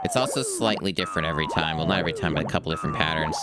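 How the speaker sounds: talking while out of breath; breathless between phrases. Real, not acted. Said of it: "trying to catch my breath here".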